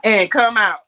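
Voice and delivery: New York accent slipping out. Real, not acted. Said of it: "That New York accent coming out".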